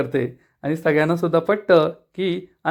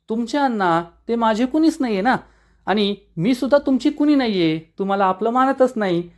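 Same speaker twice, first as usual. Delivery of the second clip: voicing the heroine; 4 semitones higher than usual. Heroine voiced in recap.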